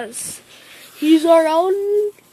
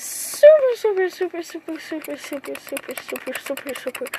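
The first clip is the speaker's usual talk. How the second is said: fading supers; 2 semitones lower, 5 dB quieter, faster than usual. Shown as a demonstration. Retelling Naruto's joy again, supers fading out softly. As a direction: let the supers die away to almost nothing. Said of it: "super excited".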